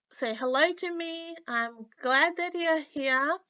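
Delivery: stuffy nose from a cold; nasal sick voice. Real, not acted. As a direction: talk through a blocked nose, a little sick. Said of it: "sounding a bit nasally".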